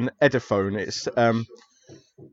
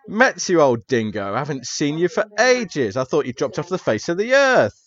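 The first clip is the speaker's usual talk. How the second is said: friendly professor greeting; 3 semitones higher, 3 dB louder than usual. Acted. NPC professor greets player character.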